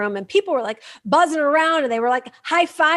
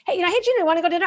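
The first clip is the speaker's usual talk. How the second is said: friend's invitation; 5 semitones higher, much faster than usual. Retold or imitated. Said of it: "I was the queen of".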